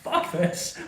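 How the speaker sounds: weary cop, slow and loud; fed-up Gordon voice. Retold or imitated. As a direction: throw it all away, disgusted. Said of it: "Gordon just turns around and is like".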